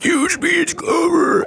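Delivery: high dying soldier cry; heroic shout. Acted. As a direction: yell it like a dying hero. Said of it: "He's like".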